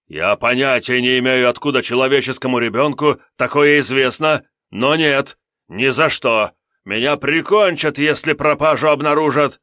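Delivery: high, loud frantic imp refusal; a cowardly demon begging off; panicky little demon. Acted. Imp demon voiced in story. (визгливый испуганный демон)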